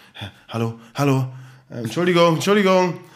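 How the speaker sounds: put-on frantic, flustered calling, high and loud. Retelling how a man at the bottle machine called for help: imitating a panicked man. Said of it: "er wurde auf einmal richtig panisch".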